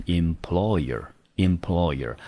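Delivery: employer said slowly and clearly, with an -er ending; slow teacher's demonstration of employer; pronunciation of employer. Shown as a demonstration. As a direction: model employer twice for learners, unhurried. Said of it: "这个整个字我们就念成".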